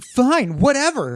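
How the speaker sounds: extremely high, maximally irritating voice. Told to sacrifice their voice in a contract, a speaker answers in an annoying Prince Eric voice. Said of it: "In the most annoying Prince Eric I could".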